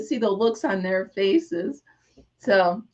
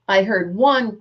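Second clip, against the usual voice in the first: usual speaking voice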